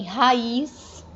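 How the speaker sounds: "raiz" com A e I em sílabas separadas; vogais separadas. Shown as a demonstration. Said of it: "veja que estão separados". ("raiz" em hiato, ra-iz)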